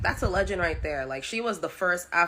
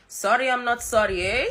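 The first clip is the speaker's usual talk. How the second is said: higher, louder quoted catchphrase; a singer; 6 semitones higher, 6 dB louder than usual. Retold or imitated. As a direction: mimic her cheeky line with relish. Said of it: "I love the way she said".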